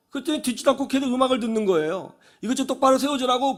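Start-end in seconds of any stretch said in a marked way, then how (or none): 2.4-3.6 higher, insistent retold demand; acted insistence. Old man to student ignoring him, insistent demand. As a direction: press an ignored request, lightly acted. Elder repeats the ignored request.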